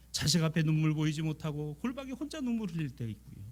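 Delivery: ordinary delivery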